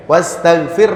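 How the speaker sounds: WASTAGHFIR ending on a vowelless R; sukun ending. Shown as a demonstration. Teacher explaining the ending, sukun pronunciation. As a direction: stop WASTAGHFIR on R with a slight breath. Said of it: "roknya disukun".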